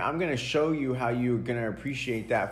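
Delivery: mock furious parent telling off a kid; angry parent. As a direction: play the fed-up parent chewing him out. Voicing his parent scolding him.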